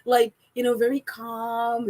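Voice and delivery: lightly imitated calm podcast voice, slowing at the end; a hint of smooth podcaster. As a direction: ease into a mock-calm podcast delivery. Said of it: "I need to change my voice".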